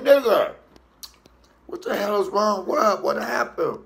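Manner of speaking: high, loud startled mother; mama startled. Retold or imitated. Mama answering her crying son, high and alarmed. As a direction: ask fast what's wrong, alarmed. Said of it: "She said".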